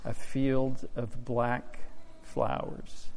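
real tears, voice breaking, slowing to a halt; fighting back tears while telling it; crying. Real, not acted. Farmer telling the church his strawberry crop froze, choking up. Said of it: "Sorry, I'm crying".

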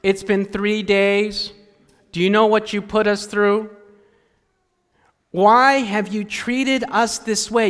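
measured, pointed frustration; frustrated mother. Acted. Mary to Jesus after three days searching, frustrated. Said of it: "You can sense the frustration".

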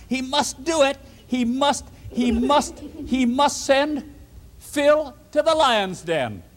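insistent demand. Acted. Schemers insisting to the king.

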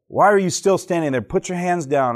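teacher scolding. Retold or imitated. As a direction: scold the kid who's still standing there. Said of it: "And she says".

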